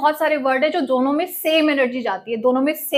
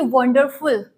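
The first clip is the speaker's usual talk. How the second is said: वंडरफुल with most stress on the opening "वन"; stress on first syllable; 2 semitones lower, slower than usual. Shown as a demonstration. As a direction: say वंडरफुल with stressed "वन", lighter "डरफुल". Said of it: "वन पे ज्यादा stress डालेंगे".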